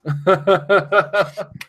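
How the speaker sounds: bursts of real laughter; laughing. Real, not acted. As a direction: laugh at yourself. Laughing at own grandpa voice.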